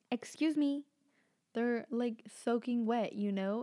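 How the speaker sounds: indignant mock disbelief; retold indignation. Retelling her indignant reply to uncle.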